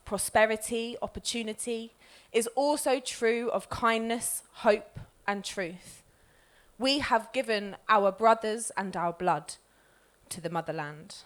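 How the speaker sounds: measured, swelling poem recital; poem reading. Acted. Poet reading her poem to the room, measured recital. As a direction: let each image land, rise and fall.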